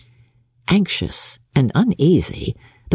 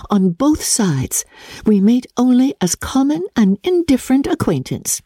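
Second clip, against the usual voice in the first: put-on a touch higher, composed young woman; lightly voiced Jane; 7 semitones higher than usual. A narrator's reading. Jane assuring her sister she feels easy, lightly higher. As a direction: give Jane a gentle lift, steady and assured.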